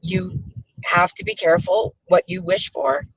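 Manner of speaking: hoarse, phlegmy voice; scratchy phlegmy voice. Real, not acted. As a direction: talk through a scratchy, phlegmy throat. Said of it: "my horribly scratchy, phlegmy voice".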